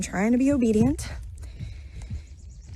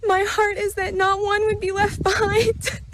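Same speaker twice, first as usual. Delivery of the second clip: quoting through tears, pitched up; tearful; 6 semitones higher than usual. Real, not acted. Quoting what Jesus told her, crying. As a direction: voice breaking on the words.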